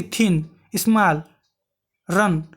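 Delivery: "थिन", "स्मॉल", "रन" each in a single beat; said in one go. Shown as a demonstration. Teacher showing short words for comparison, each in one go. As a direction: say "थिन", "स्मॉल", "रन" whole, separately. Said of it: "क्या एक शब्द में हम बोल ले रहे हैं".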